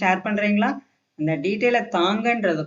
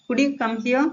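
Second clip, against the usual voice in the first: higher-pitched polite question; polite request; 5 semitones higher, much slower than usual. Shown as a demonstration. Teacher softens "come" into a polite request. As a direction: ask it courteously, pitch lifted at the end. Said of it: "இந்த மாதிரி பொலைட்டா பேசினா".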